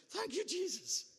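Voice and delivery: very high, loud acted thanks; exultant praise. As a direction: shout the thanks in overjoyed relief. His relieved reaction, louder repeat.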